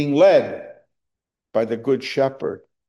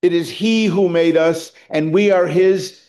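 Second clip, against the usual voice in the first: reading aloud; 3 semitones higher than usual. Shown as a demonstration. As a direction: proclaim the psalm with rising conviction. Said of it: "It says".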